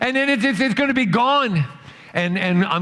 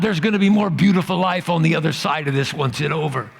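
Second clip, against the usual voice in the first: voice of God; 2 semitones lower than usual. Acted. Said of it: "you hear this whisper in your soul".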